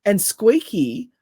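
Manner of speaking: mock squeaky voice. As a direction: lightly put on a pitchy, squeaky voice. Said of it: "sound pitchy and, and squeaky".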